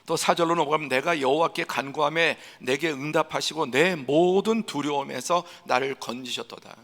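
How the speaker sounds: usual speaking voice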